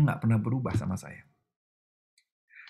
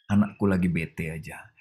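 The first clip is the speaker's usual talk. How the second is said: calm reassurance; 4 semitones lower than usual. Retold or imitated. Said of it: "Tuhan yang bilang sama malaikat-malaikat".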